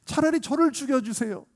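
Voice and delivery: high-pitched plea to a judge; acted parental entreaty; parent crying out. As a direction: beg as a desperate parent would. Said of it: "그 부모가 외치는 거예요".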